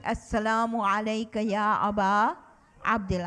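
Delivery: brisk chanted greeting, rising then falling; quick recitation. Shown as a demonstration. Teacher drilling children in the greeting, brisk chant. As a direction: rattle it off as a call for the class. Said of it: "And then you recite".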